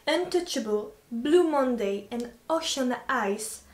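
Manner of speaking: careful, slow English accent on a French voice; French speaker putting on an English accent; attempted English accent. Shown as a demonstration. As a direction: read it out in your best English accent. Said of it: "le faire avec un accent anglais".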